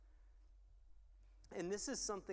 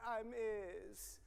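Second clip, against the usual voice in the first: lightly mimicked toddler, higher pitched; toddler baby talk; 4 semitones higher than usual. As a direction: imitate a little boy, pitched up. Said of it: "That was my favorite".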